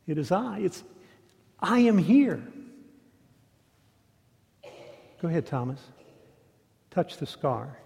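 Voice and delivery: soft, tender and quiet, coaxing a doubter; hushed and kind, no push at all; gentle invitation. Acted. Jesus gently invites doubting Thomas to touch his wound, soft and tender.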